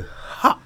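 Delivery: imitated effort shout.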